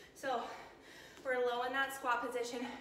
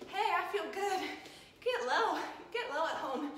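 laughing; 3 semitones higher than usual. Real, not acted. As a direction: cheer them on through laughter. Laughing while cheering on.

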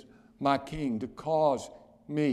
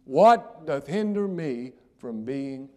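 earnest question; 8 dB louder, slower than usual. Retold or imitated. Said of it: "that eunuch said".

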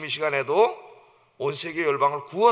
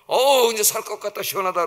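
higher opening, easing down; acted relief; 4 semitones higher, 4 dB louder than usual. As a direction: voice the relief of cool shade. Jonah relieved under the shade, retold.

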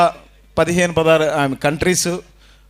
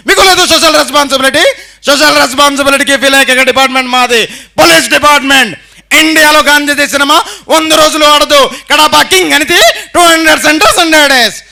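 lightly voiced stern police officer; a hint of an actor's punchy movie dialogue, a bit louder; film actor impression; 3 semitones higher, 3 dB louder than usual. Mimic on stage delivering a police film dialogue, lightly voiced. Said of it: "శేషిండే గారి voice".

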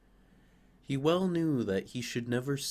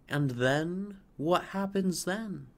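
higher, louder, pressing eagerness; trembling fir; 7 semitones higher, 3 dB louder than usual. Acted. Fir desperate for the sparrows' answer. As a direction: beg for the rest of the story. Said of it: "trembling in every bough".

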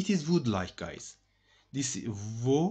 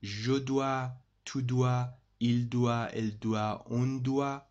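a little slower. Shown as a demonstration. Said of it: "I will tell you a little bit slower".

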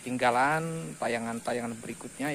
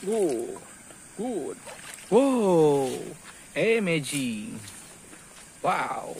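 talking to a dog; 3 semitones higher, 6 dB louder, much slower than usual. Real, not acted. Cheering the dog's catch.

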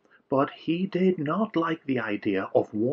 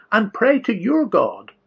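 higher, louder urgent order; yell; 7 semitones higher, 6 dB louder than usual. A narrator's reading. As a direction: bark the order at him. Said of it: "yelled the captain".

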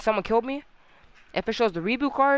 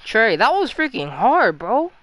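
excited; 3 semitones higher, 6 dB louder, slower than usual. Real, not acted. Loud exclaim.

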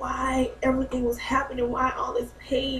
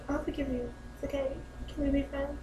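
mock sweet forgiveness; 5 semitones higher, 9 dB quieter than usual. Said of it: "I'm like".

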